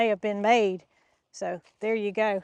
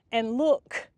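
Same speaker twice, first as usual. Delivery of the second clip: breathless with excitement; winded, excited talk; out of breath; 4 dB louder than usual. Real, not acted. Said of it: "I'm a little bit out of breath".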